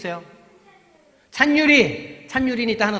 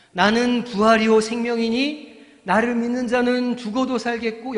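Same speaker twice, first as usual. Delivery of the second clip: proclaiming Jesus; 3 semitones higher, 6 dB louder than usual. Acted.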